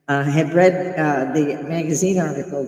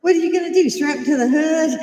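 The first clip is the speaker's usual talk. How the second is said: incredulous; 12 semitones higher, 5 dB louder, faster than usual. Real, not acted. Mocking incredulous question.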